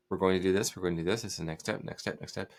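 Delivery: quick, assured, leading the way; forceful confident voice. Shown as a demonstration. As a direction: push ahead like you already own the sale. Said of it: "using that sort of forceful voice".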